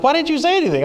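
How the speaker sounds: high, startled question in a mock coach voice; surprised coach. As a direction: play the coach caught off guard, lightly. Coach learns his real name.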